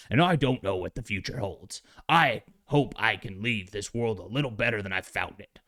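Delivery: put-on light Southern accent as the Thing; a hint of a Southern accent, homespun. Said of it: "Maybe that's a little too, uh, Southern".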